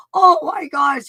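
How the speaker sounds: high, loud oh my gosh of sudden insight; mock amazed gasp. Host imitates students at their breakthrough, high and amazed. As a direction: act out the moment it clicks. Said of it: "it's like".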